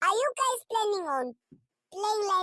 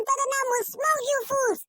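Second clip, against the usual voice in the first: taunting shout; 3 semitones higher than usual. Real, not acted. Taunting rival fans, repeated.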